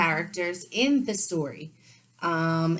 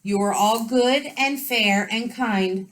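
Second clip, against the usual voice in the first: sobbing; 5 semitones higher, 7 dB louder, slower than usual. Acted. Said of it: "sobbed the loony king".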